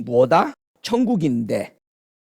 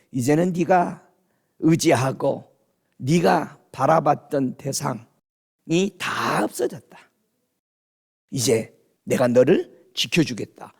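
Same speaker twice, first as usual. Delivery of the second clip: gently voiced Lord; 4 semitones lower than usual. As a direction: lightly voice a reassuring Lord, low and hushed toward the end. Voices the Lord comforting the bereaved preacher.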